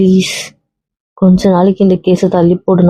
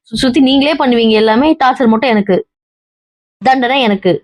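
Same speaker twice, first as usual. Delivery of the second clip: tearful outburst; 2 semitones higher than usual. Acted. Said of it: "கத்தாத, ஏன் இப்படி படுத்துற?".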